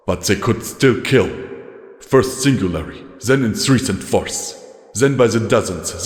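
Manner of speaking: a lightly voiced weary old soldier, grave; tired commander recounting losses; weary legate.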